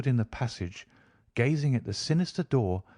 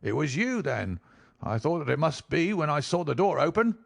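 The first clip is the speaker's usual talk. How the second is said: lightly voiced smiling host, sly; smug, pleased he caught her; smiling villain; 3 semitones higher than usual. A narrator's reading. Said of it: "said he, smiling".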